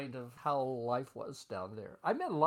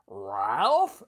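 loud call across a crowded room; yelled name; 4 semitones lower, 10 dB louder than usual. Retold or imitated. Boss calling the young draftsman from the back room, loud. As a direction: shout the name across the office. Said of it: "he would talk to me and yell".

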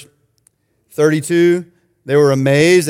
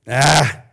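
short throaty demon groan; demonic guttural. Acted. Demon protesting at Jesus of Nazareth, demonic guttural. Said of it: "The demon says".

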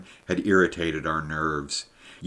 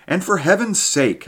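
much higher and louder plea; exasperated outburst; 12 semitones higher, 5 dB louder than usual. Acted. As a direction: burst out in exasperation, high. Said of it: "I went on".

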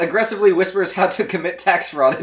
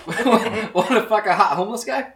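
reading it again slowly through laughter; drawn out, cracking up; slow laughing read; 3 semitones higher than usual. Shown as a demonstration. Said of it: "repeats the note more slowly while laughing".

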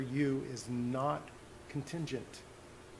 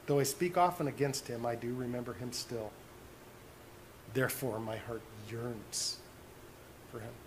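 tender; 4 semitones lower, 7 dB quieter than usual. Acted. Preacher quoting God's longing for his child, tenderly. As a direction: let the voice drop low and soft with longing.

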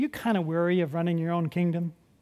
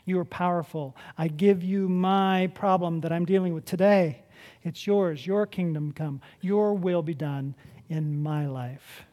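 sample prayer; 4 semitones lower, 4 dB quieter than usual. Pretend. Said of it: "take my little kingdom and say".

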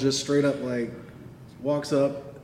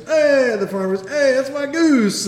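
loud, high hammed-up Italian farmer; Italian accent; 13 semitones higher, 8 dB louder than usual. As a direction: shout like an angry Italian farmer. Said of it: "I don't know why I'm Italian all of a sudden".

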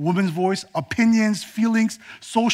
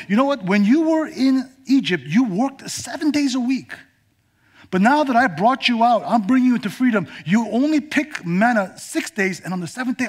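higher, gently urging God; lightly voiced God; 5 semitones higher than usual. God telling freed Israel about the Sabbath, higher and warm. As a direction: speak as God inviting rest.

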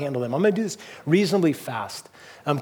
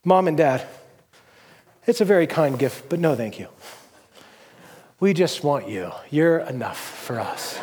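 mock pious. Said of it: "what my wife and I did not want".

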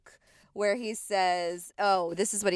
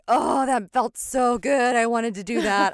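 gleeful relief; 4 semitones higher, 7 dB louder than usual. Retold or imitated. Panelist voiced relieved and gleeful.

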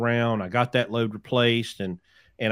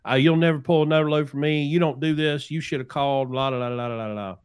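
angry voicemail; 4 semitones higher than usual. Retold or imitated. Retelling the agent's angry voicemail, fast and raised. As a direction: imitate the furious agent chewing him out. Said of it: "very angry voicemails".

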